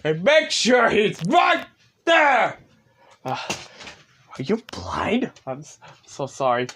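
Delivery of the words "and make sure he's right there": shouted order. Real, not acted.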